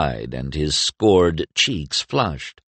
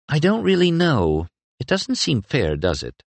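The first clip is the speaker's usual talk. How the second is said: Nicus voice; 9 semitones higher than usual. A narrator's reading.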